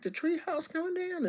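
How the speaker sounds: high-pitched mock disbelief; surprised question. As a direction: squeak it out in disbelief. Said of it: "And we was like".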